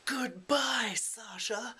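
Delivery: high goodbye, then Sasha whispered; goodbye then hushed name. Retold or imitated. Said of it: "then Fyedka goes".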